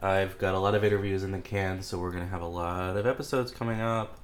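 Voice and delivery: congested, cold in the nose; stuffy nose. Real, not acted. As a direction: speak through a head cold. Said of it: "so I sound like I have a cold".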